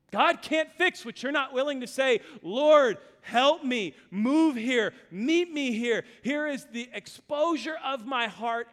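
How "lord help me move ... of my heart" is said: higher, louder cry to God; loud pleading prayer. Retold or imitated. Voicing a prayer in sermon.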